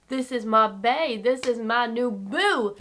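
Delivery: drawn-out, hammed-up adoration; gushing mock reaction. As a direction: stretch each phrase like showing off a new love. Acts out her gushing reaction.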